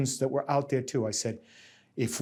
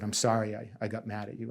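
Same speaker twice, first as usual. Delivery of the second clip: sheepish apology; 2 semitones lower, 7 dB quieter, faster than usual. Retold or imitated. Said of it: "came back and said".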